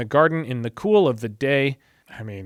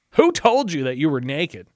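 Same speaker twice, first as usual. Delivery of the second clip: milder God; 3 dB louder than usual. Acted. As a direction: ask it again, less forcefully. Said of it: "different cadences".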